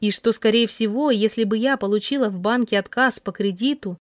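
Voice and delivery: ordinary delivery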